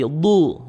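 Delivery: slow "du" with heavy Arabic dhad; dark emphatic d in "du"; thick dhad. Shown as a demonstration. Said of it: "pangkal lidah naik".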